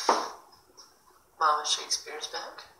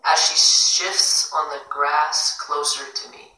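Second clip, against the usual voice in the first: measured poetry recital, stressed words louder; poem reading; 5 dB louder than usual. Acted. Host reads a listener's poem to the live room, measured recital. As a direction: read the poem aloud with deliberate phrasing.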